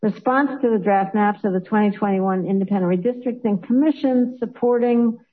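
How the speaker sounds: real suppressed giggles creeping into the reading; trying not to laugh. Real, not acted. Embarrassed member reads out the wrong resolution title, trying not to laugh. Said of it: "I'm so laughing".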